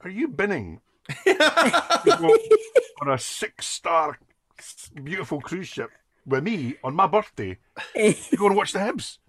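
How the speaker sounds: high, laughing, slow mock outrage; retelling his wife's outraged question, laughing; wife's disbelief through laughter. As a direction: laugh your way through her complaint.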